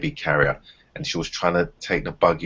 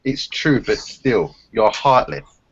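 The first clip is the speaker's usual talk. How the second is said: put-on quoting girlfriend; 5 semitones higher, slower than usual. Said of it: "she sends me a picture, like, laughing".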